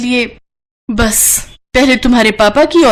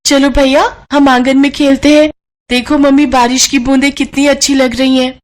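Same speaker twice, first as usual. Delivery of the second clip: put-on excited child; 4 semitones higher than usual. Child calls brother to play in the rain, higher eager voice.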